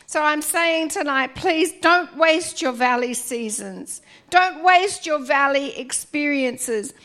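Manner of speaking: dry, squeaky throat. Real, not acted. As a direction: voice going squeaky. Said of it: "Excuse my squeaky voice".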